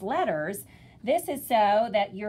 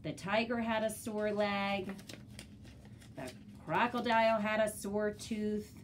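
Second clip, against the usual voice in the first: put-on reading to a toddler; 5 dB quieter than usual. Shown as a demonstration. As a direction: read aloud like a picture book. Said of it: "beginning readers with repetitive text".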